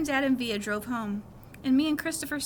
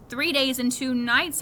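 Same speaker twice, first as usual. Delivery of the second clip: "Three days and two nights" said slowly and firmly, each word set apart; correcting; 5 dB louder, slower than usual. Retold or imitated. Boy corrects his mom about the trip length, slow and firm. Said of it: "I corrected her".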